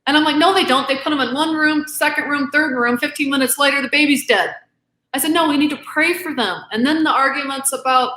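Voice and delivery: getting emotional. Real, not acted. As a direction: voice climbs as the feeling takes over. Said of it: "I get a little emotional".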